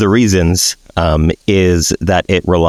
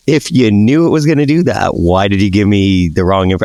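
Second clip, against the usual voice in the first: mock scolding. Scolding the AI chatbot.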